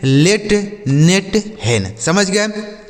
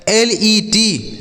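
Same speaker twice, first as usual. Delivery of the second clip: slow spelling; 4 semitones higher, much slower than usual. Shown as a demonstration. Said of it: "teacher spells the word out".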